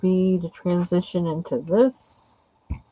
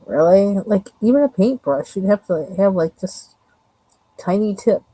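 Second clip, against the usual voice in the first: exasperated; 3 semitones higher, 6 dB louder than usual. Real, not acted. Frustrated at tiny area to color.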